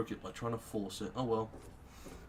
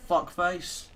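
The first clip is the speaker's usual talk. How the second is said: gloating taunt; 2 semitones higher, 4 dB louder, slower than usual. Real, not acted. Taunting ants being killed.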